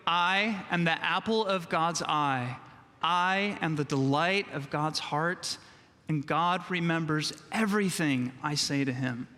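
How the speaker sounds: slow, deliberate unison line for all to follow; slow recitation. Shown as a demonstration. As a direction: lead the room word by word, slowly. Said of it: "Say it with me".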